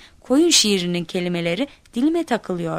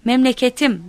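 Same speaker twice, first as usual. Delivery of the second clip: high, louder proclaiming cry; narrated shout; 5 semitones higher, 5 dB louder than usual. A narrator's reading. Child opening the poem onstage, shouting it out. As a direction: call it out to a full hall. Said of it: "diye haykırdım".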